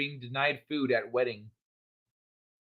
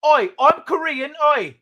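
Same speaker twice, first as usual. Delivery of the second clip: high, hammed-up fake Korean accent; joke Korean accent; 10 semitones higher, 4 dB louder than usual. British influencer showing off his supposed Korean accent, badly faked and high. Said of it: "I can do a Korean accent".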